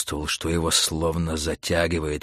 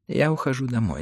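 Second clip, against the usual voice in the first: mildly upset, higher voice; trembling voice; 4 semitones higher than usual. Acted. Mrs Bowles wants to leave, trembling. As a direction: announce it with a touch of trembling. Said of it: "дрожащим голосом промолвила".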